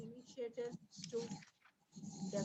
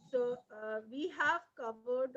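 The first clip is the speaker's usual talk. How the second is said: louder; 2 semitones higher, 7 dB louder, slower than usual. Real, not acted. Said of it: "little, uh, loud, ma'am".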